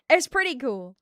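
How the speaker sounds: projected news anchor delivery; newscaster voice. Shown as a demonstration. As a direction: turn on the newscaster voice. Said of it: "I can turn on, like, that voice".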